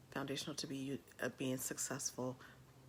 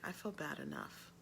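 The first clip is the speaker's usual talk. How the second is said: retold hurt quiet; 6 dB quieter than usual. Tearful son answering his angry mom, retold in a quiet voice. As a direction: quote a hurt child quietly. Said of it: "he got really, really quiet".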